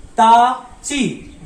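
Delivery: slow recitation. Shown as a demonstration. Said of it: "pronunciation है ची".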